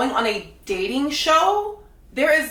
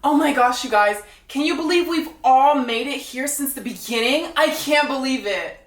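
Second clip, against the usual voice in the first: higher gushing mock girl voice, lightly done; mocking fake excitement; 3 semitones higher than usual. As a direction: imitate her gushing with sarcasm. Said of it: "She goes".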